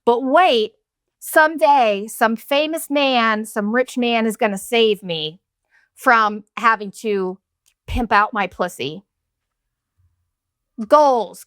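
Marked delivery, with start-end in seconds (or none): 0.1-9.0 mock dreamy kid. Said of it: "little kids ... being like".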